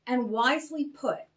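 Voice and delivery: measured storybook reading with voiced characters; story narration. A narrator's reading. Storyteller reading a chapter aloud to children, measured narration. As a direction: read the chapter to the children with care.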